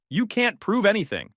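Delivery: high-pitched defiant challenge. A narrator's reading. Cheating wife challenging husband's evidence, defiant. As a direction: throw down a high, indignant denial.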